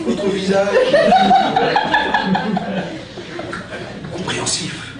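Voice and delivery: theatrical verse recitation, with pauses; hammy stage actor. Acted. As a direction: declaim each insult like Cyrano. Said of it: "utiliser son style".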